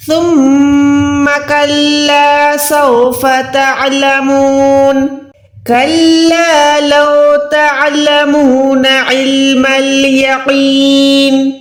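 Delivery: slow, measured tajweed recitation; slow Quranic recitation. Shown as a demonstration. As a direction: chant it slowly with tajweed. Recites verses.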